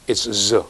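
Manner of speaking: "z" as a short buzzed "zuh"; z sound. Shown as a demonstration. Teacher showing S at word beginnings, low buzzed "z". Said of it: "at the beginning".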